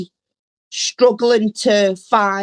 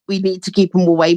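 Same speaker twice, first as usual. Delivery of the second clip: quick mock panic; much faster than usual. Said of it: "Vivian and Maud panic".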